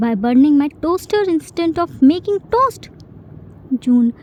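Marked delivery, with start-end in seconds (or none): 0.1-2.9 sarcastic scolding. Acted. Jin scolding Jun over kitchen.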